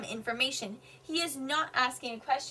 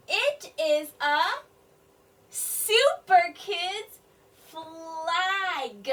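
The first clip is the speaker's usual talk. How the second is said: put-on slow, louder on "super kids"; slow sounding out; 4 semitones higher, 5 dB louder, much slower than usual. Shown as a demonstration. Teacher decoding the sentence for children, slow. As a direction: stretch each word out. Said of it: "all of them are saying".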